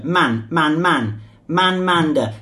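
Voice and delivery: "man" said short and falling; fourth tone man. Shown as a demonstration. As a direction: drop each "man" sharply in fourth tone. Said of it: "fourth tone".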